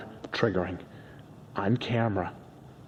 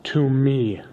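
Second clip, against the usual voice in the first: insistent bragging; 4 semitones higher, 4 dB louder than usual. Acted. Arguing partner over YouTube credit.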